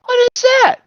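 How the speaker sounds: very high, loud, hammed-up amazement; astonished Texan. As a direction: squawk it as a baffled Texan. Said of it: "the Texan goes".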